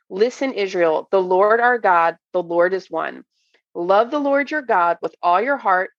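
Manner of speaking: measured, deliberate Bible reading; slow scripture reading. Real, not acted. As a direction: read the verses out slowly and deliberately. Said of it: "Did I say it slow enough?".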